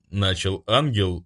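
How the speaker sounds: usual speaking voice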